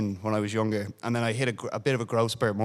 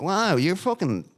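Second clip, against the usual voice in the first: teasing classmate; 7 semitones higher than usual. Retold or imitated. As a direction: drag it out like a mocking schoolmate. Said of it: "he was like".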